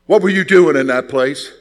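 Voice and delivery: sharp, loud reproach; scolding old deacon. Retold or imitated. Deacon confronting the boy after prayer meeting, loud scolding. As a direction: call the young man out in front of everyone. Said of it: "Mister Bogan speaks up and says".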